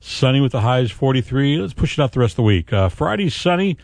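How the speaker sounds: upbeat morning forecast delivery; radio weather read. Acted. Host reading the forecast to morning listeners, breezy announcer read.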